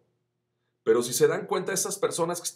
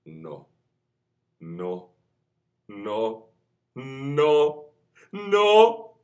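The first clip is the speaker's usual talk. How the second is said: rising scale; 11 semitones higher, 14 dB louder, much slower than usual. Shown as a demonstration. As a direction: climb the scale on each no. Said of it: "empezamos con tono medio".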